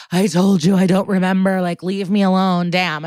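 acted-out weary, fed-up protest; tired exasperation. Questioned suspect, tired of being asked, exasperated. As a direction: sigh it out like a worn-out suspect. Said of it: "lets out this big sigh and goes".

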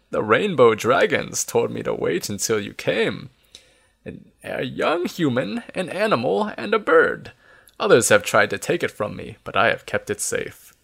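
lightly voiced old keeper; a hint of halting old-timer; Nesbit. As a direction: tell it like an old man recalling his charge.

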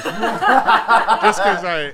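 laughing. Real, not acted. Laughing while pitching Groot.

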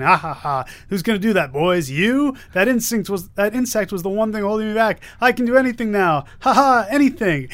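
a villain's mock laugh and boast, building; a hint of cackling supervillain; gloating villain. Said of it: "Osborn going".

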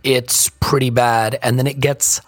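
hoarse, croaky morning voice. Real, not acted. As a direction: talk through a croaky throat. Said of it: "have a croaky voice".

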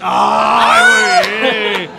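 very high, loud delighted "Ay"; a sudden squeal of joy; excited shriek. Real, not acted. Excited reaction to baby news.

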